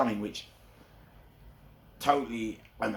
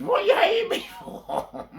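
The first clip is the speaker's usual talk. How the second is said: high mock outcry; 6 dB louder than usual. Repeated taunt refrain.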